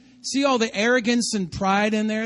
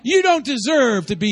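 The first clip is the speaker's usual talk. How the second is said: mock arrogance; 3 semitones higher, 5 dB louder than usual. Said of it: "That's that arrogance".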